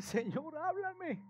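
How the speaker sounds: súplica aguda, como entre lágrimas; llanto imitado. Retold or imitated. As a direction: ruega en voz alta y quebrada. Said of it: "me tiré a llorar". (súplica llorosa, más aguda)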